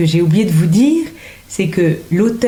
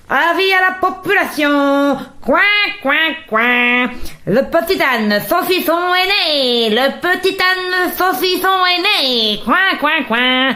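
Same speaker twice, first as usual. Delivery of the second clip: high, honking duck announcer; 8 semitones higher, slower than usual. Acted. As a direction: quack it out like a town crier duck. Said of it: "J'aime bien faire le canard".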